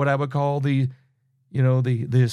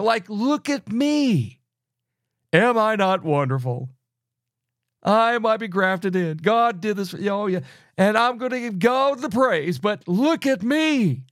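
smug boaster; 5 semitones higher than usual. Retold or imitated. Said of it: "the person who says this".

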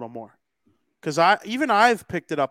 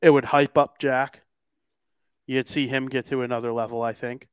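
crackly usb mic. Real, not acted. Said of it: "Now your mic is crackling a little bit".

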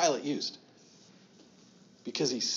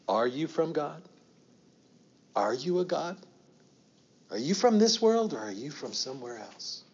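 Pilate wondering aloud; 3 semitones higher than usual. Acted. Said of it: "maybe he's saying".

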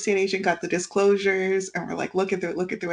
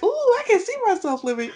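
excited dreamy; 12 semitones higher, faster than usual. Retold or imitated. Dreaming about the quiet house.

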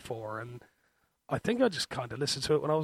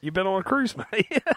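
higher, louder Scottish voice; Scottish accent; 5 semitones higher, 4 dB louder than usual. Pretend. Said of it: "Your Scottish accent's way better".

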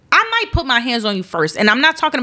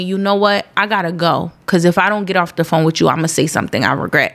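calm man voice; 5 semitones lower, faster than usual. Retold or imitated. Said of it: "I've had a guy tell me".

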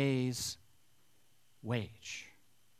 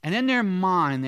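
rising excitement; 5 semitones higher, 8 dB louder than usual. Acted. Preacher builds to grumbling workers.

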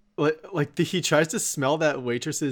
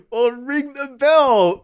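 mock shouted demand; 11 semitones higher, 8 dB louder, much slower than usual. Acted quarrel in castle.

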